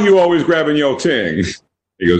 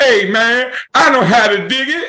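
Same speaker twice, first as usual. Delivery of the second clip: very high-pitched voice with dated slangy delivery; 13 semitones higher than usual. Riffing on dated TV scenes, imitating the black friend rounding the corner. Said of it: "your black friend comes around the corner and goes".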